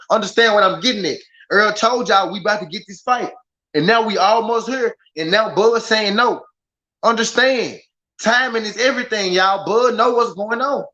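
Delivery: worked-up, high-pitched explaining; insistent arguing. Real, not acted. Arguing his point to chatters.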